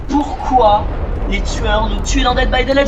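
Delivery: loud, hyped announcer question to viewers. Acted. Streamer teases viewers with a loud hyped question. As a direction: pose the big question loud like a host. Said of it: "Les amis, j'ai trouvé".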